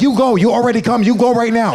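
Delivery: high, loud mock Australian accent; quick Australian accent. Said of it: "Great accent there".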